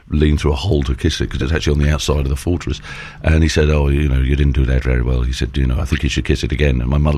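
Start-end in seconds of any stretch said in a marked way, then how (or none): 3.7-6.8 lightly put-on Irish accent; a hint of bad Irish accent; attempted Irish accent. Irish chap to a visitor at Blarney Stone, attempted Irish accent. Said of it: "Is that your Irish accent".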